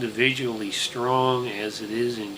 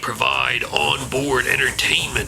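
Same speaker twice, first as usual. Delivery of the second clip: put-on Tarnation Bob old prospector; 5 dB louder than usual. Holds hick conductor character voice.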